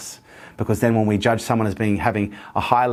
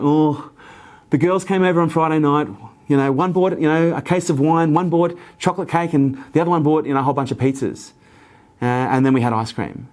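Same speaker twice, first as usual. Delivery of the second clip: sheepish confession; 5 semitones higher than usual. Retold or imitated. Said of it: "She'd be like".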